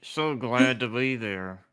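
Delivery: forced cheer through clenched teeth; through gritted teeth. Pretend. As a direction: grit your teeth and fake it. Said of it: "I'm talking through my teeth".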